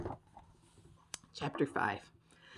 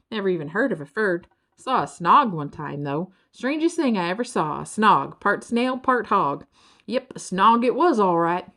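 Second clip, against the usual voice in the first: a hint of a lazy country creature, a little louder; 3 semitones higher, 5 dB louder than usual. Lazy Birdle telling the travellers about a snog, folksy. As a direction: play the easygoing Birdle.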